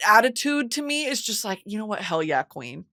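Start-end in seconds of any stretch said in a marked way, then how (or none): 2.0-2.8 low-key, softer approval; quiet nod of respect; understated cheer. Retold or imitated. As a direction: say it coolly, under your voice. First, understated take of the cheer.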